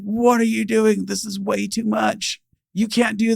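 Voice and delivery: high, slow, disbelieving objection; stunned protest. Retold or imitated. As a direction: mimic her shocked refusal. Cashier protests the big gift.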